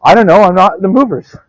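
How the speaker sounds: put-on high, loud, huffy old lady; grandmother's indignant reply. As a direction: play the stubborn grandmother. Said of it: "grandmother retold".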